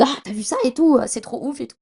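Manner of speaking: mock fangirl excitement; excited groupie imitation. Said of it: "on est en mode comme des folles, comme des groupies".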